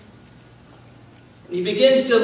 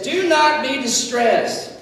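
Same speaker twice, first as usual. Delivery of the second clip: slow, steady comfort; gentle reassurance; calm reassurance; 4 semitones higher, slower than usual. Shown as a demonstration. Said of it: "he says".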